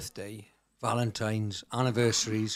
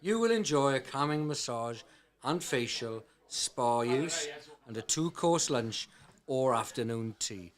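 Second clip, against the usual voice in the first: put-on Welsh accent. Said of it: "in your best Welsh accent".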